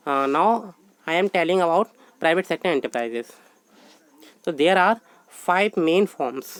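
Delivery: slow, measured dictation of a definition. Acted. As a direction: read it out word by word for notes. Teacher dictates heading in English.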